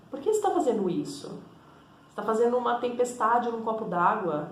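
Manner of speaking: soft, gentle inner voice, calmly questioning; like a mild, patient conscience talking you down; serene inner voice. Retold or imitated. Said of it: "Parece que existe uma voz serena e mansa".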